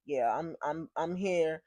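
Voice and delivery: a hint of a man accepting his fate; lightly voiced resigned man.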